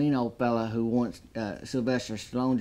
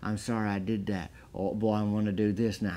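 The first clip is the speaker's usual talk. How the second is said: mellow Stallone; 3 semitones lower, 4 dB quieter than usual. Retold or imitated. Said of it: "He's mellow".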